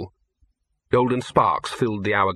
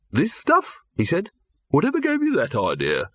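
withering retort; 6 semitones higher than usual. Acted. Silverfish withering.

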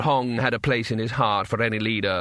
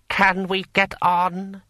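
higher, slow, imperious lord; impatient lord; 8 semitones higher, 3 dB louder, slower than usual. A narrator's reading. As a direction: press an underling with strained patience. Impatient lord presses the scribe.

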